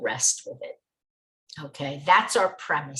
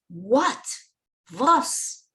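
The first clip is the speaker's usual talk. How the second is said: What and Was punched out, raised and a little louder, as a heartfelt demand; loud stressed what; 6 semitones higher than usual. Retold or imitated. Teacher voicing the Rebbe's question to his student, loud and stressed. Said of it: "stressing it in a loud voice from the depths of his heart".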